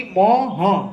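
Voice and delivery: ম and হ said as two separate slow sounds; spelled-out sounds. Shown as a demonstration. Teacher breaks the Sanskrit sound into ম and হ for students. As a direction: split it into ম then হ, clearly apart. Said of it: "উচ্চারণটা হবে কি".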